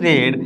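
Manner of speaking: "read" said as red; past-tense pronunciation. Shown as a demonstration. Teacher reading out the converted sentence, "read" pronounced red. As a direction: give "read" a short e, like red. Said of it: "read નું રેડ જ રહેશે".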